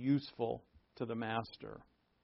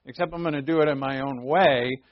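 louder, eager mock promise to God; self-assured believer; 2 semitones higher, 7 dB louder than usual. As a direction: play the overconfident helper. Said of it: "if we say".

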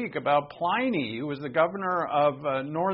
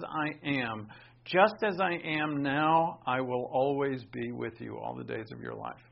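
earnest promise. Retold or imitated. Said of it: "He says".

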